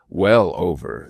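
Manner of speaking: WELL hit hard before "over"; "Well" said with emphatic weight. A narrator's reading. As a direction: lean firmly on "Well". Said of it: "said she emphatically".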